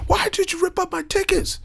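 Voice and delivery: high mocking falsetto; high put-on voice; mock high whiny voice. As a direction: squeak it like a whiny friend. Mocking a ticket-giver's whiny question.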